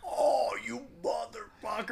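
slow, soft, winded curse; quietly wheezed curse; pained groan. Retold or imitated. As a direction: groan it out after the hit. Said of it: "I'm like".

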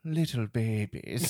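creepy request, retold. Acting creepy client's request in sketch.

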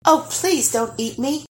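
high-pitched frightened plea; begging. A narrator's reading. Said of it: "begged Lars".

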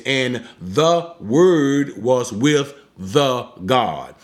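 slow and deliberate, x0.6; each word laid out slowly for the class. Shown as a demonstration. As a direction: spell it out word by word. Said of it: "let me slow it down again here".

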